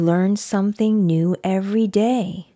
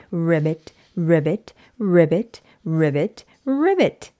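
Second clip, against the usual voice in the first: croaking like a frog; 5 semitones lower than usual. Acted. Piggy pretending to be a frog, croaking.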